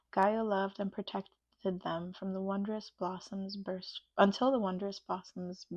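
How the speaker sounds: tripping over "Gaia loved and protected them from the wondrous blossoms burst", words in the wrong order; stumbled reading. Real, not acted. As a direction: garble the sentence and restart mid-way. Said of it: "Tongue twister".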